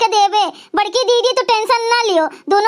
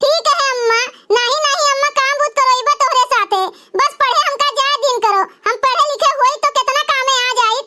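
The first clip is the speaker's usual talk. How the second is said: hint of a small daughter's voice; young girl voice; 3 semitones higher than usual. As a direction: ask sweetly to be allowed to study. Girl voice again.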